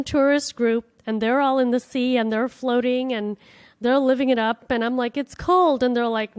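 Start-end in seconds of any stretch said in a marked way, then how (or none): 5.2-5.8 high, whiny little protest; whiny complaint. Retold or imitated. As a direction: whine it like a cold tourist. Complaining about the cold sea.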